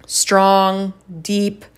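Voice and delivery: strong, measured command delivery. Shown as a demonstration. Speaker describing command tone to listeners, strong and commanding. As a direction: set each word down firmly, with pauses. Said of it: "Command is strong and it's deep".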